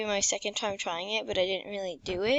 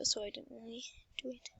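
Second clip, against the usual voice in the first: whispering; 11 dB quieter, faster than usual. Real, not acted. Whispered aside while playing.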